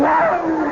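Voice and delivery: drawn-out mock retching whoa; retold "whoa". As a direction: let out a long acted whoa. Mimics being sick on the ride.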